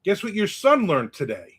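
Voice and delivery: high, sing-song tattling mom; mock tattling mom. Mother telling dad about the bad word, high sing-song. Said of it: "my mother said".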